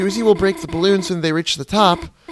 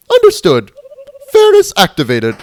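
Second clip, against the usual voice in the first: robot voice; 4 semitones higher, 9 dB louder than usual. Acted. Robotic reply.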